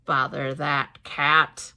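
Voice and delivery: annoyed father muttering about the cat; a grumpy Mister Thomas. Acted. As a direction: grumble it like a put-out father. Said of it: "He said".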